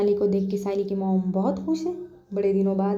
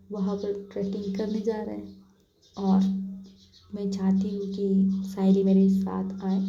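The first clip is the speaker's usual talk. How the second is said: pleading coax. Acted. Manali coaxes the aunt for trekking.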